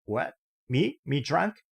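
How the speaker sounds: high, outraged disbelief; huffy old man cries out in disbelief; indignant surprise. Acted. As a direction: act astonished at the charge. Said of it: "The old man snorted".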